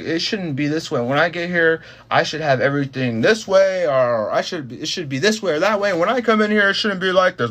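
bossy coworker imitation. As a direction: imitate a coworker laying down rules. Acts out coworker's bossy complaints.

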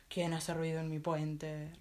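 slow, low troll roar; troll challenging the middle goat, slow low roar. Acted. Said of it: "rugió el ogro".

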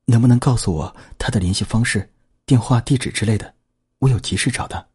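urgent pleading. Acted. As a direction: plead in a rush of worry. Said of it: "林慧君闻言急切地说".

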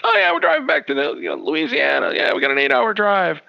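high, loud breezy cheer; tossed-off cheery boast; cheerful friend voice. Retold or imitated.

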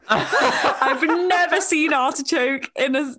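laughing through the words; giddy, giggling while telling it. Real, not acted. Excited supermarket artichoke story.

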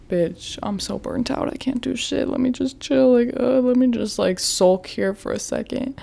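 soft, deflated and worn out; burnt out. Retold or imitated. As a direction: sag into it like you have nothing left. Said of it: "the next day I'm like".

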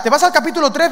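ordinary talk, nothing marked

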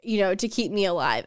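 drawn out slowly, half-teasing; a slow, hammed-up quiz question; slow mock question. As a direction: slowly pose a gross dilemma. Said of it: "you'll be like".

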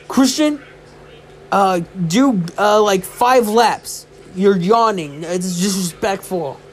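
lightly voiced scolding coach; retold coach's scolding. Coach punishes him for yawning.

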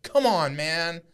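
high-pitched retold outrage; high, strained "how could you" protest; incredulous confrontation. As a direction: re-enact pleading disbelief, voice way up high. Retold confronting man who touched wife.

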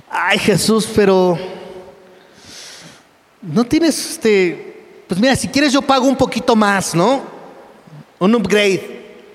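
high, sugary mock voice of a spoiled believer; sing-song high whine, acting spoiled; whiny pampered believer. Preacher mocking a comfort-seeking believer, high whiny voice.

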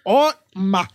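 nagging Silvio Santos impression, loud and insistent; brother's endless Silvio Santos bit during a movie; imitating Silvio Santos. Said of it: "ele tá".

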